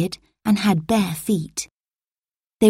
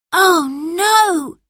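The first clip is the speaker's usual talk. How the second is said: much higher, louder cry of alarm; dismayed exclamation; 11 semitones higher, 3 dB louder than usual. A narrator's reading. Robert finds his phone missing, higher alarmed cry. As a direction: gasp it out in shock. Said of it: "he exclaimed".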